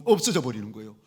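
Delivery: ordinary talk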